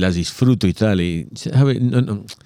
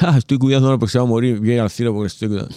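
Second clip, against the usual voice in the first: mock pious glee; 3 semitones higher, much faster than usual. Mock caregiver quote, laughed at.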